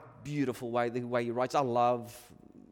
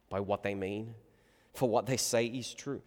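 usual speaking voice

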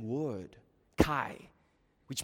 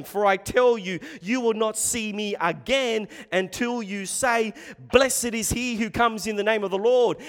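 forceful quote; 5 semitones higher, 6 dB louder than usual. Acted. Preacher quoting Jesus.

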